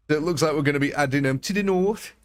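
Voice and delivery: bad Geordie impression, lilting up at the end; attempted Geordie accent. Shown as a demonstration. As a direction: have a half-hearted go at a Geordie accent. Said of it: "Can I do a Geordie accent?".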